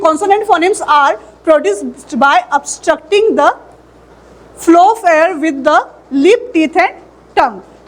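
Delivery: slow, deliberate reading of the English definition; slow reading aloud. Shown as a demonstration. Teacher to class, slow dictation. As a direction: read the definition out slowly for notes.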